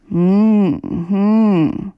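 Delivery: schläfriges, brummiges Hm-hm; verschlafenes Murmeln. A narrator's reading. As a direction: halb im Schlaf vor sich hin murmeln. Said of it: "murmelte Möndlein". (der schlafende Bruder murmelt im Halbschlaf)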